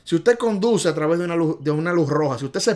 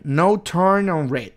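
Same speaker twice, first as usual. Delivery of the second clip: slow demo; 3 dB louder, slower than usual. Shown as a demonstration. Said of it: "esta es la señal".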